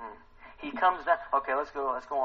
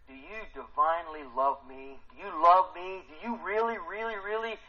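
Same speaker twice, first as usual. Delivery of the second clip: a hint of a pleading Jesus; 5 semitones higher than usual. Jesus asking Peter again and again, pleading.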